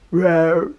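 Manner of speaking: mock growl, low; little pretend roar for a kid; playful monster growl. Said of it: "I'm a monster". (gruñido de monstruo juguetón)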